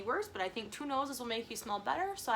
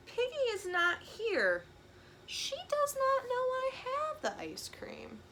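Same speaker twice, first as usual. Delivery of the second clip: higher, slow conspiratorial whisper; sneaky whisper; 13 semitones higher, slower than usual. Acted. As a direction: scheme in a hush. Gerald plotting sneakily.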